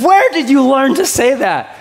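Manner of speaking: high, loud, startled mother's question; a mother caught off guard by her son's words; shocked mom. Retold or imitated. Wife asking her son, high and loudly surprised. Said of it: "And she said".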